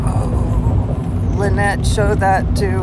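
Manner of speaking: talking over a bumpy ride; on a bumpy road. Real, not acted. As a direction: voice jolted by road bumps. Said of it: "sorry for the bumps".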